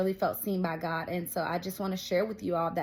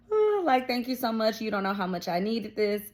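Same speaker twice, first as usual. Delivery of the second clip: imitated crying; 2 semitones higher than usual. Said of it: "just crying. And I'm just like".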